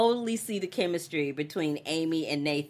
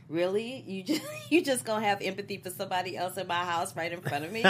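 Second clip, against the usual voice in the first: mock indignant; 3 semitones higher, faster than usual. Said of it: "That's how she looked".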